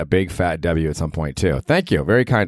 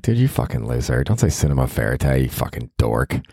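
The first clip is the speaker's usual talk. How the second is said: lower, mocking friend voice; mock friend scolding; 5 semitones lower than usual. Friends mocking him for saying cinema verite, lower and scornful. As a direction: imitate a friend sneering at you. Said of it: "my friends rolling their head".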